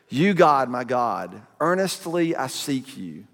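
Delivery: scripture reading. Acted. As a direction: read the psalm like a prayer. Reads Psalm sixty-three aloud.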